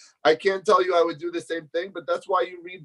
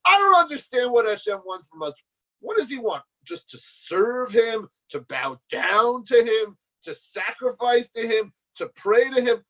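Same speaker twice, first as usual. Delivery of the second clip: mock-angry, raised-pitch protest; angry outburst; 5 semitones higher than usual. Student protesting what Hashem wants, imitated mild anger. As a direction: imitate an exasperated student listing grievances. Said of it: "He got angry".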